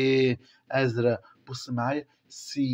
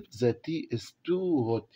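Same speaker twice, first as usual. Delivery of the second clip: slow reading aloud; much slower than usual. Shown as a demonstration. Teacher reading the text to the class, very slowly. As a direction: read each English word very slowly for the class.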